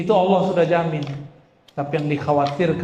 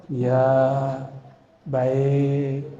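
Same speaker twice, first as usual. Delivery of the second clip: low, measured, deferential reply; a meek yes to a parent; polite obedient child; 3 semitones lower than usual. Acted. Well-mannered santri answers his parents, politely obedient. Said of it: "dia tahu adab kepada orang tuanya".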